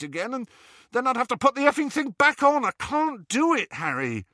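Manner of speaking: put-on rising, desperate young man; anxious Ron. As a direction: beg to be let off, voice climbing. Ron pleading with Harry.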